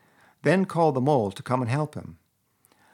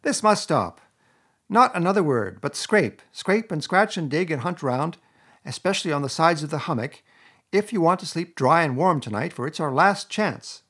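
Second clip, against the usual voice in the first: high, loud, urgent orders; angry rat demanding action; really angry; 6 semitones higher, 5 dB louder than usual. A narrator's reading. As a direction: lay down the law to a friend. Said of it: "really angry".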